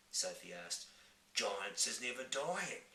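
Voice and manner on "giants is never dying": giant voice. Acted. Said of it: "the B F G answered".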